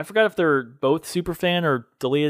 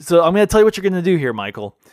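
mimicking Michael on the phone; 3 semitones higher, 4 dB louder, faster than usual. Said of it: "it's so funny".

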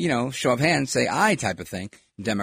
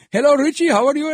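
high, louder mock South Asian greeting; imitated South Asian accent; 13 semitones higher, 7 dB louder, faster than usual. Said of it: "speaking to them in their own accent".

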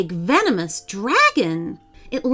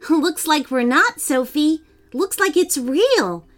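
smiling; 6 semitones higher than usual. Acted. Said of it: "Amy smiled and said".

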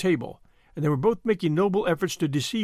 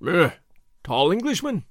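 slow innkeeper. A narrator's reading. Surly innkeeper slowly answers the English travellers, slow and unhurried. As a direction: take your time, unwilling to answer. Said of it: "and then said very slowly".

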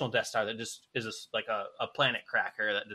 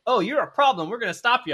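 stern threat; 9 semitones higher, 7 dB louder than usual. Retold or imitated. Fallen empires threaten him.

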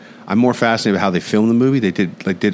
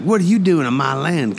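higher-pitched mock challenge; territorial Texan; 7 semitones higher than usual. Texan landowner confronting a stranger on his land, mock challenge. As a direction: challenge a trespasser, lightly acted. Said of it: "the Texans are just a little more on the ball".

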